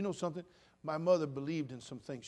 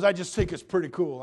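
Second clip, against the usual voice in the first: loud, high, pleased inmate voice; proud inmate; 5 semitones higher, 12 dB louder than usual. Retold or imitated. Pastor imitating the inmate's proud answer, loud. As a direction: show off like it's a prize. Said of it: "He goes".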